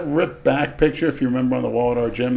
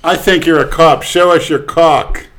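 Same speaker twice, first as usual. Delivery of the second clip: imitating Vera; 4 semitones higher, 9 dB louder, slower than usual. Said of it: "As Vera would say".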